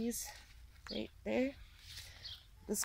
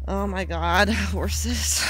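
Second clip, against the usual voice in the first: laughing exasperation, louder; exasperated laugh; 7 dB louder, much slower than usual. Real, not acted. Exasperated at horse injuries.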